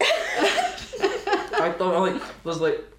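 talking round a mouthful of egg; mouth full. Real, not acted. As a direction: speak with your mouth stuffed. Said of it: "I actually can't fully close my mouth".

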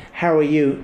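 quick throwaway how are you; careless, automatic "How are you?"; perfunctory brush-off. Shown as a demonstration. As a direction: toss off "How are you?" like you don't care. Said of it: "'Cause it's a real brush".

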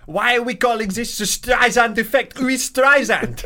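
bewildered member of the public; mock baffled people. Asking friends in a high, baffled mock voice. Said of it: "People are like".

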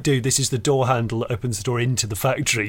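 low-key, unimpressed worker; deadpan reply. Acted. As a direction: calmly play down the excitement. Unimpressed worker answers shouting presenter.

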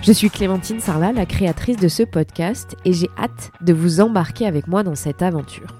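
hoarse and congested, sick with a cold; cavernous cold voice. Real, not acted. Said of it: "de cette voix caverneuse, c'est la saison des rhumes".

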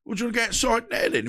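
laughing challenge. Retold or imitated.

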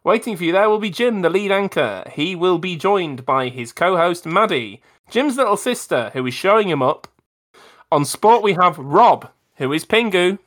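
upbeat radio station announcer. Acted. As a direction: introduce the news show like a DJ. Radio news intro.

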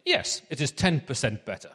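mock German accent, played for laughs; comedy German accent. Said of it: "that is, I think, the German reply".

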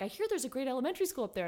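breezy parent voice. Retold or imitated. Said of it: "being like".

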